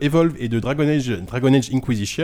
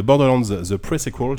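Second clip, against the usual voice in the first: English accent; slower than usual. Real, not acted. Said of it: "J'ai un accent anglais absolument formidable".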